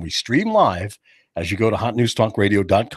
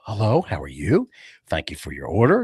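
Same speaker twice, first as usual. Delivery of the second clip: lower, polite customer-service greeting; respectful; 5 semitones lower than usual. Acted. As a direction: greet the customer courteously and calmly. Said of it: "Then they'll be respectful".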